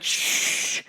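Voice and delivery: gentle shh; shushing. Retold or imitated. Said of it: "He's like".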